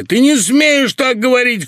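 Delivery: very high, loud outraged cry; high, loud cry, stress on не; angry shout. Acted. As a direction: shout him down in fury. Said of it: "крикнула она".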